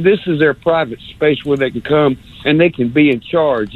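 ordinary talk

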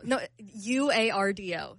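ordinary talk

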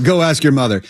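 a touch of bitterness; mildly bitter brush-off. Acted. Stepdad sending the kid to mother, bitter. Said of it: "like, bitterly".

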